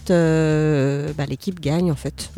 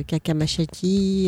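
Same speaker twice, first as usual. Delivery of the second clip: slow made-up Japanese-sounding words; fake Japanese; 4 dB quieter, slower than usual. Shown as a demonstration. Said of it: "c'est du faux japonais".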